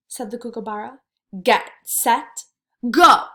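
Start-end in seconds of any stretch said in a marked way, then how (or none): 1.4-3.3 louder, calling the start; starter's shout. Acted. Kookaburra starting the race.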